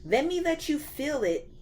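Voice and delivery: a hyped-up lightly voiced God. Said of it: "He was like".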